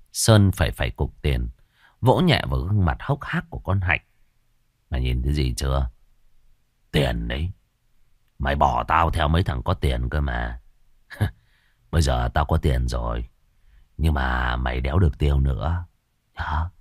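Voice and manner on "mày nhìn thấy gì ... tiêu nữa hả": low, menacing gloat over his wife; low gloating husband. Acted. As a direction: taunt her coldly with the money.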